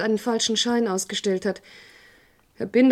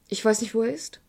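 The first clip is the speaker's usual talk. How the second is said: hushed. Acted. Hushed exchange about report.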